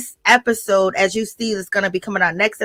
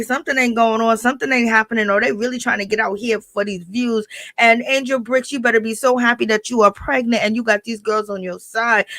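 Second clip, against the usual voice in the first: ordinary talk, nothing marked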